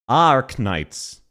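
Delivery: "Arknights" with the R sounded clearly; pronounced R. Retold or imitated. Mimicking the clip, R in Arknights pronounced. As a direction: lean on the R in "Arknights". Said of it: "She pronounces the letter R".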